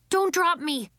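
put-on a touch of worry as the kid dangles; lightly voiced nervous boy; anxious. A narrator's reading. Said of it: "He sounded anxious now".

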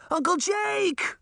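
high, drawn-out desperate call; frantic shout. Acted. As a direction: cry out for your uncle. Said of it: "Sabrina shouted".

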